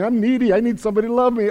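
lightly mock a clingy, needy God. Preacher mocking a needy God for his congregation, lightly whiny. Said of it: "the Bible's not showing God going".

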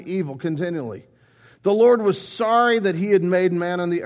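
measured, solemn Bible reading to the congregation; scripture reading. Acted. Preacher reading Genesis to the congregation, solemn and measured.

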